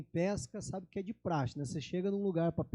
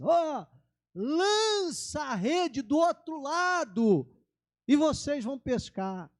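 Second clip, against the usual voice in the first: higher, louder, slow and drawn-out command; calling out; 7 semitones higher, 5 dB louder, slower than usual. Retold or imitated. Jesus telling the disciples to cast the net, loud call. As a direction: stretch the words to carry across the water. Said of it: "Aí Jesus grita assim".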